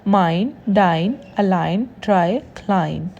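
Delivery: word-list demo of माइन, डाइन, अलाइन, "ei" said as "eye"; English "I" sound. Shown as a demonstration. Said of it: "English वाले आई की sound देगा". (माइन, डाइन, क्लाइन में आई की sound)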